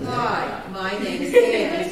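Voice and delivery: dramatic contrasting demo of the name; different tune. Shown as a demonstration. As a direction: lift the whole phrase way up and stretch it. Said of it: "It's a totally different".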